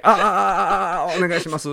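deliberate stutter. Shown as a demonstration. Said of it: "相手の歩く方向に".

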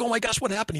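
high singsong mock alarm. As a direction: play the startled bar crowd, lightly. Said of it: "everybody's like".

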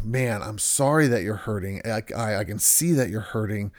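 soft, caring validation; gentle empathy. Retold or imitated. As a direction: comfort them quietly. Empathetic spouse validating feelings.

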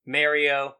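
Mario with the first vowel as in "marry"; mimicked pronunciation. Co-host mocking how his friend says Mario, mimicked pronunciation. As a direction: say Mario as "MARE-ee-oh", imitating the co-host. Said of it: "hearing you say Mario like you say".

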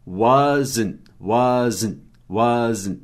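"wasn't" devagar, was-zn, com T quase mudo; duas sílabas em wasn't. Shown as a demonstration. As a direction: separe "wasn't" em duas sílabas, sem vogal final. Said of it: "Note que tem duas sílabas". ("wasn't" didático, alongando was e fechando em zn)

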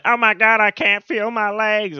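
cartoon character voice. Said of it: "Best one ever was when".

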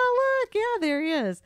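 excited. Retold or imitated. Spotting cameo, mimicking own reaction.

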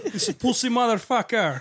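mock Russian tough guy, cussing; hammed-up Eastern European gangster voice; Russian street thug accent. To the room, doing a Russian street shambler accent. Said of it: "do a pretty good Russian street shambler".

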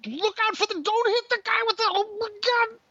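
a father hamming up panic as his daughter drives; mock panic. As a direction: squeal in comic alarm at the crash. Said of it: "I'm in her ear".

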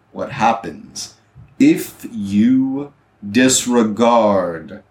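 slow, measured proclamation with heavy pauses; booming captain. Acted. Guard captain declaring a curfew to the town, booming voice. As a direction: lay down the law, word by weighty word. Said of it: "you hear a booming voice say".

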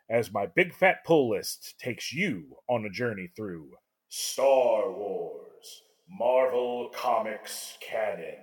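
epic trailer-style narration; dramatic narration. A narrator's reading. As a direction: read it like a movie trailer. Scripted podcast intro narration.

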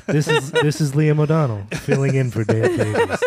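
lightly done public radio host voice; a hint of smooth radio announcer. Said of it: "makes me wanna work on my radio voice".

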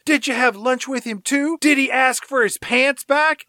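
high-pitched mock old lady. Old lady needling another about Bigfoot, high old-lady voice. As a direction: pitch it way up as an arguing old woman. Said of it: "old lady number one says".

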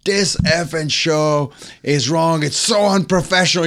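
mock tirade rising in pitch; imitated angry rant. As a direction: act out a star ranting, without real shouting. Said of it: "he starts screaming at everybody".

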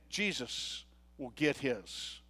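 low, soft, slow mumble under the breath; a lightly voiced grumbling threat, slow and hushed; mumbling. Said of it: "I heard them mumbling".

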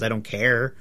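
ordinary delivery

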